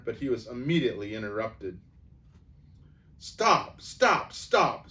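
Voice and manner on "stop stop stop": high, loud repeated stop; urgent stop. A narrator's reading. Doctor Cornelius halting the quarrel, loud and high. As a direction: cut them off urgently. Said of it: "said Doctor Cornelius".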